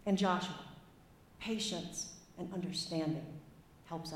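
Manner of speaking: lightly put-on American Southern accent. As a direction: read old Moses with a modest Southern accent. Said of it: "apologies for my terrible accent".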